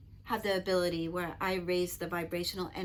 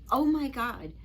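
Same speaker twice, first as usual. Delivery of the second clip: louder, high-pitched startled outburst; retold shock; 6 semitones higher, 6 dB louder than usual. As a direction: re-enact being startled, loud and high.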